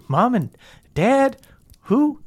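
high, evasive feigned puzzlement; guilty Meemaw. Acted. Meemaw asked about parents, guilty and evasive. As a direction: play innocent, pitch climbing on each question. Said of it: "she looks guilty".

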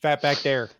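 "there" said as "dere", Wisconsin style; Wisconsin accent. Shown as a demonstration. Host correcting guest's line, in Wisconsin accent. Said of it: "Not, not there, there".

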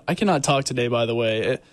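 talking with a numb tongue; words thick from a numb tongue. Real, not acted. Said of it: "my tongue is numb".

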